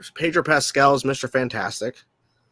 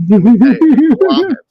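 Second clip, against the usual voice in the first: loud, slow, high mock delight; sarcastic; 12 semitones higher, 13 dB louder, much slower than usual. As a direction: stretch out love it sarcastically. Exaggerated repeat.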